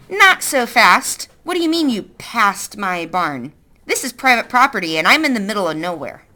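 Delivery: a hint of a stern woman; lightly voiced suspicious woman. Woman character voice.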